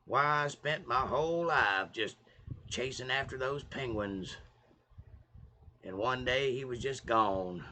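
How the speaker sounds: slow, measured storytelling impression; lightly voiced wistful movie narrator; Morgan Freeman. Streamer showing off his voiceover chops, slow narrator impression. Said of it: "you can sound like Morgan Freeman".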